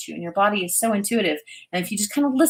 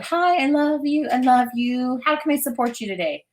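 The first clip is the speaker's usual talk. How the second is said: higher, loving greeting to her own body; tender talk to body; 6 semitones higher than usual. Retold or imitated. Speaking lovingly to her own body, higher and tender. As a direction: coo it gently, like greeting someone you love. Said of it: "like, conversations with my body, talking to it".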